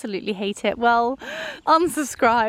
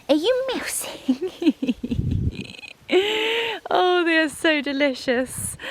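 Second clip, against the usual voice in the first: dog voice; 7 semitones higher than usual. Real, not acted. Owner asking her dachshund about mice in dog voice. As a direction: coo at the dog. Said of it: "I am so sorry for my dog voice".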